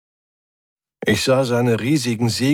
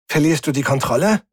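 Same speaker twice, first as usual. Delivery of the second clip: taunting; 6 semitones higher, faster than usual. Acted. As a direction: needle him with mock concern. Rick taunts the computer.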